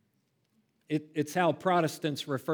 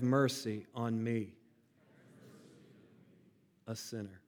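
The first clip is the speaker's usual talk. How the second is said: prayer lead; 3 semitones lower than usual. Shown as a demonstration. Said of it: "repeat after me".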